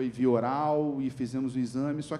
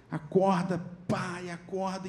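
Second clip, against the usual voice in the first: retold urgent wake-up call, pitched high; high, insistent calling; urgent waking call; 6 semitones higher, slower than usual. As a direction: call out to rouse someone from anesthesia. Surgeon slapping patient awake.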